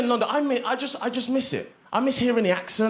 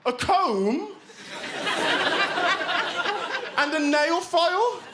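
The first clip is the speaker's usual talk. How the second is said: high-pitched mock gangster attitude; slow, defiant comic comeback; bad attitude; 8 semitones higher, slower than usual. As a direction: imitate a stroppy Brummie gangster, high and drawn out. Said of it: "he had this really bad attitude".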